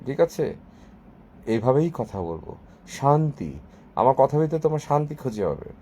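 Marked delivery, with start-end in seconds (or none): 1.5-5.7 lightly voiced calm yoga baba; yoga guru. Promising viewers peace through speech, lightly voiced yoga guru. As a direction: speak softly like a serene guru. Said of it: "yoga বাবাদের মতো করে".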